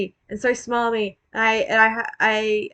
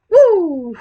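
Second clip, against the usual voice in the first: excited whoop; 8 semitones higher, 9 dB louder than usual. Pretend. Cheering off on bike.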